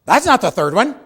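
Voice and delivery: high, loud mock protest; wife correcting. Wife contradicting husband in front of agent, high and loud. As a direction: cut in sharply to correct him. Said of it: "And she says".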